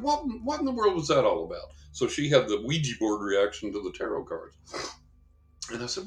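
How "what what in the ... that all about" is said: high, fast astonished question; baffled. Retold or imitated. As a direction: sound completely bewildered. Baffled by lady's reaction.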